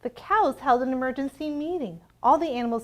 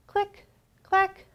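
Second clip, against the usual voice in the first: high, bouncy click clack; typewriter clicks; 10 semitones higher, 3 dB louder than usual. A narrator's reading. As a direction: tap it out like keys. Typewriter sound refrain.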